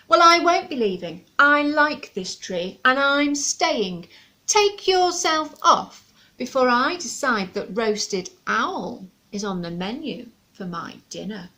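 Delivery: loud, very slow threatening dragon; menacing dragon. Acted. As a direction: threaten to roast the owl.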